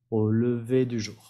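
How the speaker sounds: "Au lever du jour" with R only in "jour"; French pronunciation demo. Shown as a demonstration. Teacher repeats for learners, "lever" without R, "jour" with it. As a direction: end "lever" on é, sound the R of "jour". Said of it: "la R no se pronuncia y aquí sí".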